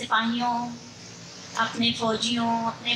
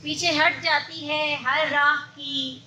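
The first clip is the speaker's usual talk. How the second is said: measured Urdu mushaira recital; poetry recitation; 2 semitones higher than usual. Acted. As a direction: recite verse in long, even phrases.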